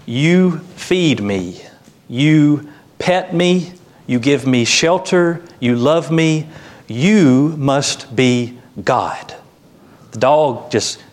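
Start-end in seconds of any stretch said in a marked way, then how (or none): 0.1-9.3 slow, higher, awestruck dog voice; adoring dog. Acted. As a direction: gush slowly at your owner, weighting each YOU. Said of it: "The dog looks at his owner and he says".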